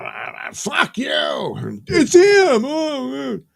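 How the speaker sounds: high loud put-on scream; hammed-up frightened yell; mock startled shout. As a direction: yell it like a man scared by a ghost. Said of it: "it's like".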